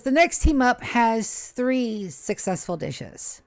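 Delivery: slow, formal announcing; slow announcer. Acted. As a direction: announce it slowly and grandly. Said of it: "Caleb says".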